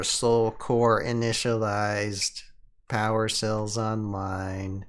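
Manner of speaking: slow, even machine readout; robot voice. Acted. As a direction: read it like a lazy robot. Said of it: "You gotta do the robot voice".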